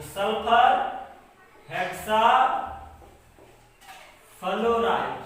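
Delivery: word by word, long pauses between; dictation. Shown as a demonstration. Teacher dictating a compound name to students, paced dictation. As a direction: dictate each part separately.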